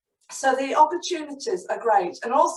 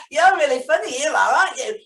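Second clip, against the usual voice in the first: laughing; 4 semitones higher, 4 dB louder than usual. Acted. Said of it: "Marvin giggled".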